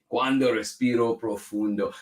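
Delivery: Spanish title with an English accent. Real, not acted. Host trying a Spanish book title, English accent. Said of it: "I read that with an English accent".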